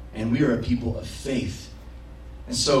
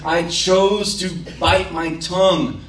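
a touch louder, slowing at the end, mock-triumphant; proud self-report; 4 semitones higher, 3 dB louder than usual. Preacher retelling his prayer of restraint, mock-proud and slowing. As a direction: savor the small victory, lightly hammed. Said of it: "And I was like".

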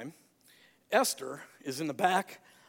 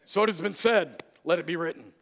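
louder, proclaiming like a movie pharaoh; mock pharaoh proclamation, louder; movie pharaoh quote; 6 dB louder than usual. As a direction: declare it like a royal decree. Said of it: "Any of you people watched Ten Commandments?".

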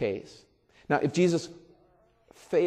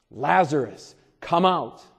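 a firmer, less loud repeat of the call; 5 dB louder, slower than usual. Retold or imitated. Preacher repeats Jesus' call to Lazarus, firm and carrying. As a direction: call the name again with authority. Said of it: "called out in a loud voice".

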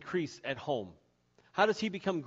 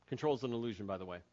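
low aside; 8 semitones lower, 9 dB quieter, much faster than usual. Real, not acted. Quiet aside.

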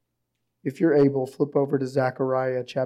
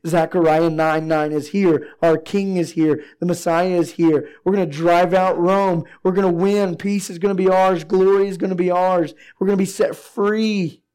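excited crowd; 4 semitones higher, 7 dB louder than usual. Retold or imitated. They are saying.

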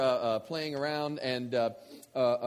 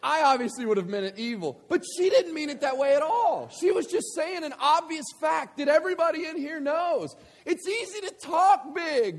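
much higher, louder preaching voice; full-force preaching; 12 semitones higher, 9 dB louder than usual. Acted. Preacher pressing his point on the congregation, forceful preaching. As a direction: drive the point home to the congregation.

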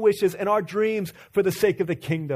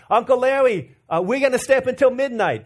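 put-on loud, high, excited child accent; high kid accent with "Larry" as "Lawwy"; kids' mixed accent; 6 semitones higher, 5 dB louder than usual. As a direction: imitate a four-year-old's accent, calling out. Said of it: "their accent".

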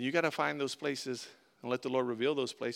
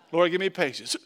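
praying for patience through teeth; 6 dB louder than usual. Retold or imitated. Mock prayer through teeth.

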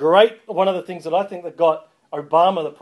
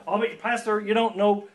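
higher-pitched put-on American accent; mock American objector, pitched up; bad American accent; 5 semitones higher than usual. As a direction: slip into a clumsy American accent. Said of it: "going into my bad American accent".

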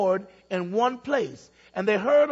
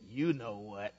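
low, soft snickering reply; 11 semitones lower, 11 dB quieter than usual. A narrator's reading. Parrot snickering back at the old man. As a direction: sneer it with a sly snicker. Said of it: "smiled and snickered and said".

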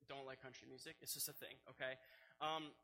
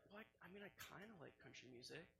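much softer, sheepish confession; 2 semitones lower, 14 dB quieter, faster than usual. Retold or imitated. Imitating his wife admitting she likes country, sheepish and soft. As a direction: own up quietly, a little embarrassed. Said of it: "sheepishly is like".

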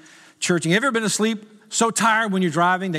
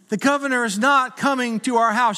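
exasperated husband; 6 semitones higher than usual. Retold or imitated. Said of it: "I'm like, "Babe".

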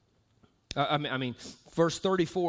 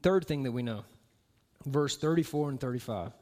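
strained throat, pushing through; forcing words past a sore throat; straining with effort. Real, not acted. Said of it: "pray for my throat here".

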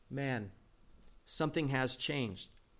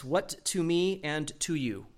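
slow literal rendering. Shown as a demonstration. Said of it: "It really means this".

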